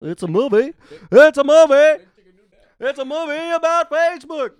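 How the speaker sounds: high shouting disbelief; mock outrage. Real, not acted. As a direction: yell it in exaggerated disbelief. Mocking outrage.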